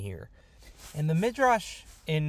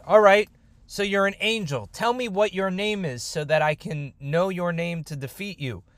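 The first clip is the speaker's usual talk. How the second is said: raised-pitch demand, loud at the start; forceful demand; 5 semitones higher, 4 dB louder than usual. Acted. Yaakov gripping the angel, demanding his name forcefully. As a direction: take charge and demand an answer.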